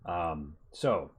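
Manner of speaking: a lightly voiced gruff mercenary chief; bugbear boss. Bugbear leader sizing up the party, lightly voiced and bluff. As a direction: boast a little, then make the offer.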